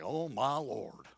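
OH drawn out low and soft, sighing it; weary, low and drawn-out lament; dejected "oh my Lord". Shown as a demonstration. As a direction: say "Oh, my Lord" slowly, sinking in pitch. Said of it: "It's more like".

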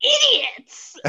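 mock outraged shout. Mock outrage at other characters.

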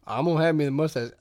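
mock Southern accent; imitated bad Southern accent; Aldo Rains. Actor answering the director about the mustache, Southern accent. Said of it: "I came up with this accent".

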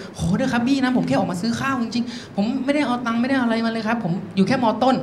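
soft, small begging voice; meek pleading. Acted. Boy begging a policeman to let him off, soft pleading. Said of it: "เลยตัดสินใจยกมือไหว้เลยแบบ".

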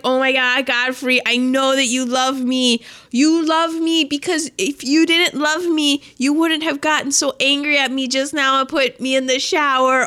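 a touch of giddy delight; mock gushing lovestruck woman; lightly voiced giddy Irene; giddy happy. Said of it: "she is so happy".

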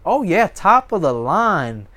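high, loud boastful show-off; hammed-up proud owner showing off. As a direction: brag about your gear, grinning. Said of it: "And you go".

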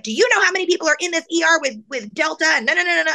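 high, rapid, dismissive mimicry; mocking nurse impression. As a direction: mimic an officious scolding. Mocking retold rude nurse.

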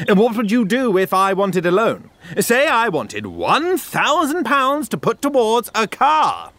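exasperated challenge. Acted. Customer challenges farmer's bank plan.

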